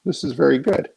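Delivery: a hint of the mentor, pitched high; Neil Adams' approving voice. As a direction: lightly voice the older artist's approval. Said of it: "And he goes".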